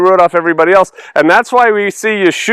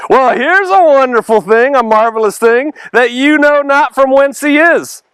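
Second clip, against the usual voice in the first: sarcastic; 6 semitones higher than usual. Acted. Healed man mocking the Pharisees, sarcastic. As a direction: lay the sarcasm on thick. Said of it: "He's so sarcastic".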